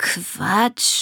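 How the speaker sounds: spoken with a purr. Narrator reads the small creature's denial to Asmina, purring. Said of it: "schnurrte Pünktchen".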